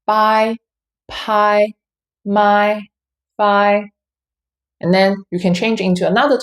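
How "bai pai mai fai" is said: "Bai, pai, mai, fai" each held on a level, steady pitch; first-tone drill. Shown as a demonstration. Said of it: "you can practice like this".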